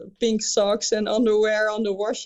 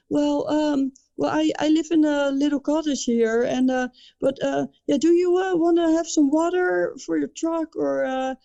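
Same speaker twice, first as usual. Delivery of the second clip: imitating drunk guy; 6 semitones higher than usual. Drunk guy offering help, voiced high.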